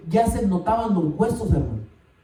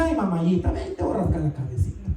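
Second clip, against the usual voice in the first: tender husband voice; 2 semitones lower than usual. Retold or imitated. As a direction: coo it like a doting husband soothing her. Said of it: "si te hablo como tu esposo".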